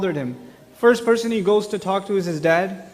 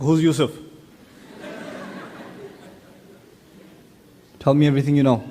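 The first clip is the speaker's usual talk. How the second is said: suspicious dad; 5 semitones lower, faster than usual. Retold or imitated. Father suspicious of boy Yusuf.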